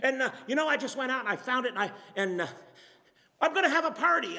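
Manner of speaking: tumbling words from a giddy shepherd; Shepherd John gushing to his neighbor about the found sheep; excited rush. Retold or imitated. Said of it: "he's all distraught, and he's excited".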